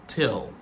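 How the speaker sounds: "till" as one short syllable; clipped-down "till"; reduced form. Shown as a demonstration. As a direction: drop the first syllable, just "till". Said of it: "c'est la réduction de until".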